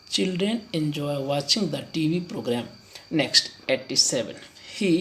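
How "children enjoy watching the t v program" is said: slow model sentence. Shown as a demonstration. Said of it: "to watch लगाएं कि watching".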